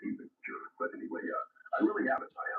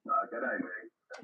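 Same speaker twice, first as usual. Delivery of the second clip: slow, drawn-out Aussie greeting in a mock Australian accent; 4 semitones higher, slower than usual. Ham radio operator greets a friend in Australian accent. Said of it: "take on an Australian accent".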